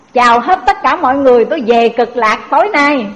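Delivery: mock-cheery announcement of departing tonight; cheerful farewell. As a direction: toss it off brightly as if leaving happily.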